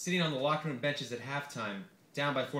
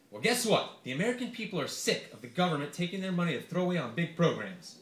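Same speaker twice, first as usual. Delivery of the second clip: Santorum voice; 4 semitones higher than usual. Acted. Senator lecturing the reporter on government waste, preachy. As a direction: talk like a righteous candidate. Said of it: "This is gonna require a lot of voices".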